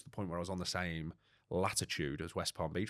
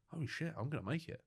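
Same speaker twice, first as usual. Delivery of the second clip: excited disbelief; 9 semitones higher, 4 dB quieter than usual. Retold or imitated. Realising he will make it.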